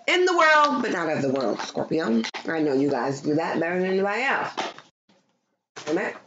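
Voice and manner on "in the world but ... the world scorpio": booming gospel declaration; proclaiming. Acted. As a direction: announce it like a preacher.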